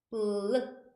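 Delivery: 블 said alone as the opening bl sound; short, separate 블 to show the blend; sound demonstration. Shown as a demonstration. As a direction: isolate 블 for learners. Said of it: "이 발음 아시죠?".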